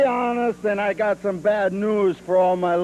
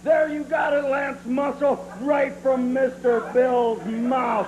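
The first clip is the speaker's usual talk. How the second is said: gloating shout; 4 semitones higher than usual. Acted. Gloating to the announcer.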